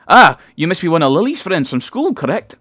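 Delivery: high, loud, swooping delight; hammed-up eager Scottish mum; overenthusiastic mother. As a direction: greet the caller with too much enthusiasm. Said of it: "a little overenthusiastic given the mundane situation".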